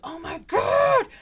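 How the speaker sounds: loud, high, drawn-out mock yell; Shane's yelling. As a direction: imitate an exasperated outburst, stretched out slowly. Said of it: "Shane is yelling at the screen".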